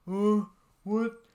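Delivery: mock surprised huh. Imitating a confused audience reaction.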